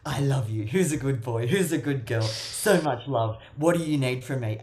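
loud, gushing pet voice, like praising a puppy; doting baby talk. Retold or imitated. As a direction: coo over them like a good dog. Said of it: "go up to that dog energy and go".

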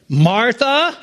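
"Martha," called gently, rising a little at the end; a mild calling of "Martha," tenderly drawn up; gentle calling. Shown as a demonstration. Jesus calling Martha by name, gently rising. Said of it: "I believe this is the way he said it".

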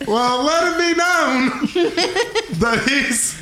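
high squeaky defiant voice; gnome character voice. Acted. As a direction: insist in a high pitched gnome voice. GM voices gnome NPC insisting.

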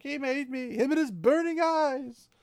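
tearful wail. Retold or imitated. Fain blaming his master in a mild tearful wail. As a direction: whine it like a man half-crying. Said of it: "big fat tears coming down his cheeks".

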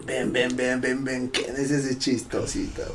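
soft, slowing officer's summons, imitated; summoning captain. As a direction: beckon the joker over with understated menace.

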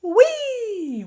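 "Wee!" squealed very high and very loud, all out; full gleeful wee. Shown as a demonstration. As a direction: let the "Wee!" fly like on a rollercoaster. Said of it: "That was more like it".

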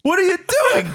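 high startled squeal; surprised. Real, not acted. Friend reacting to accidental video call, shrill surprise. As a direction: caught off guard, voice jumping up.

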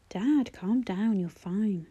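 slow, soothing reassurance; calm reassurance. Acted. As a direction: settle him down gently. Son calming panicked father.

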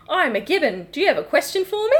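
simple monkey with a rising question; put-on Gibbon voice; Australian Gibbon. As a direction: play an eager, simple Aussie Gibbon. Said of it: "The classic Australian Gibbon".

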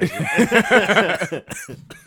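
loud burst of laughter. Real, not acted. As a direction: crack up loudly. Big laugh at own joke.

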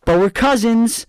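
high, slow dramatic reveal; spring the twist, drawn out and high; a hammed-up big reveal; mock shocking reveal. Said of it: "the shocking reveal is like".

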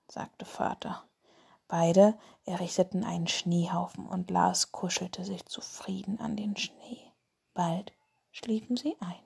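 hushed bedtime storytelling; sleep story narrator. A narrator's reading. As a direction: whisper it like lulling a child to sleep. Whispered bedtime story podcast.

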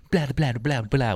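exaggerated mouthed blahs, mimicking a lecture; mock her with blabbering. Student mimicking teacher behind her back, mocking. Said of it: "just start mocking every one".

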